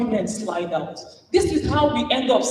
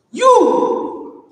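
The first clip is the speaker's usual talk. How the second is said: sudden high loud yell; mock shout; 12 semitones higher, 8 dB louder than usual. Man shouting at colleague in meeting, loud. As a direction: bark it out high. Acted shout in retold fight.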